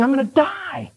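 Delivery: acted protest. Acted king protesting the prophecy.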